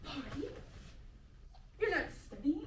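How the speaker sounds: stern dad voice. Acted. Improv dad scolding son.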